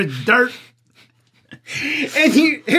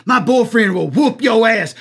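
mock threat. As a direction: bark the threat like a rowdy date. Quoting the dirt leg threat.

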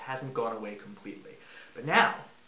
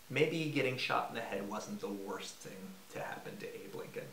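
whispered aside; 3 semitones lower, 6 dB quieter than usual. Real, not acted. Dark joke aside.

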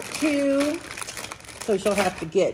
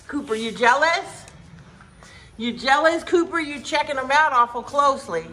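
teasing the dog; 6 semitones higher than usual. Real, not acted.

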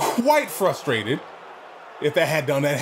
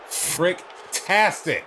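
slow sarcastic drawn-out word; sarcastic drawl; 3 semitones higher, much slower than usual. Real, not acted. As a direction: drag it out with sarcasm. Sarcastic reaction.

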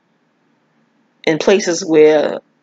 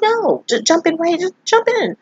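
high, easy "just jump in", no pressure; a calm professor telling you to jump; calm instruction; 12 semitones higher than usual. Retold or imitated. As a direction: say it like nothing to worry about. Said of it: "All calm".

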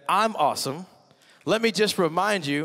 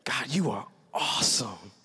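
lower, softer humble praise; humble prayer; 6 semitones lower, 5 dB quieter than usual. Retold or imitated. Worshipper humbly praising God, soft and low. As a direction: say it quietly to God. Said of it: "you humbly say".

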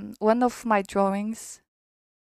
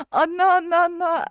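high eager aunt voice; 8 semitones higher, 8 dB louder than usual. Acted. Aunt reassures the heroine.

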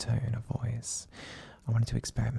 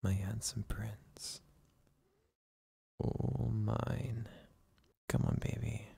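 relaxed ASMR whisper. Acted. Boyfriend whispering his partner back to sleep, hushed and soothing. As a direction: lull him to sleep in a hushed, tender murmur. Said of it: "use a more relaxed and deep tone of voice".

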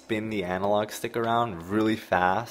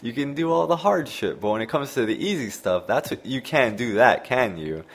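mock stunned outrage; 4 semitones higher than usual. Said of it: "he was just mind blown".

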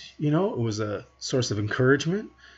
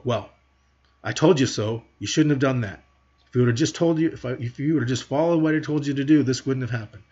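impatient scolding parent; 4 dB louder than usual. Retold or imitated. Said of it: "impatient and intolerant and frustrated".

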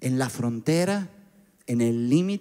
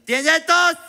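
much higher, louder strange voice; odd doctor; 13 semitones higher, 4 dB louder than usual. Retold or imitated. Strange doctor asks patient about cough, high odd voice. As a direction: ask like a weird robotic doctor.

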